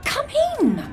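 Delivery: high call to come in. Acted. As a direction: call the newcomer inside. Shouting visitor in through door.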